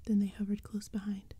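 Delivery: hushed spooky whisper throughout; whispered storytelling. A narrator's reading. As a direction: breathe the story like a secret. Whispered narration.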